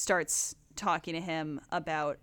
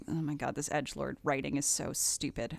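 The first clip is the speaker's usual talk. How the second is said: dismissive scoff; 3 semitones lower, 6 dB quieter than usual. Retold or imitated. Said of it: "an uncharitable way that's like".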